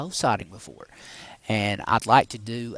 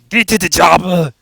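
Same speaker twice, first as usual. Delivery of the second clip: hammed-up action-hero bellow, pitched high; Arnold Schwarzenegger; 7 semitones higher, 15 dB louder than usual. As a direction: roar it out as an over-the-top movie impression. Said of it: "that's a little Arnold Schwarzenegger there".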